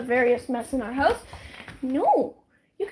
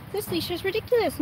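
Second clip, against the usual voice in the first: same complaint said again, higher; higher repeat; 5 semitones higher than usual. Real, not acted. Owner repeating her leash complaint for viewers, higher mock grumble.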